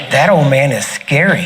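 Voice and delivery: chuckling through the words; amused, laughing while speaking. Real, not acted. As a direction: laugh it out as you remember. Laughing recalling the scary preacher.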